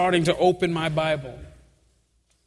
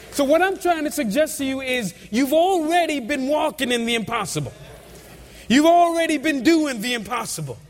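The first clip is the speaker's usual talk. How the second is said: higher-pitched, drawn-out sermon emphasis; emphatic preaching; 5 semitones higher than usual. Real, not acted. Preacher tells congregation they've already done the impossible, preaching emphatically. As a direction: drive each phrase home to the congregation. Preacher builds to main point.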